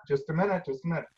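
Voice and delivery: repeated, muttered-aside put-off; distracted brush-off. Parent on device putting off wailing child, distracted brush-off. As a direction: fend the kid off absently. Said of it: "and I go".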